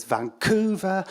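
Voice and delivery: lightly voiced robot, drawn out; mild robot impression. Robot's answer.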